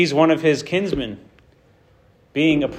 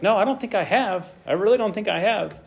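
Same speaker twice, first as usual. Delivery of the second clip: protesting Job; 6 semitones higher than usual. Retold or imitated. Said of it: "Job's like".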